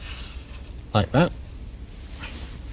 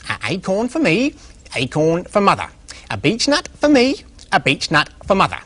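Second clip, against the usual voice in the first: grunting; 5 semitones higher than usual. Acted. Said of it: "he grunted".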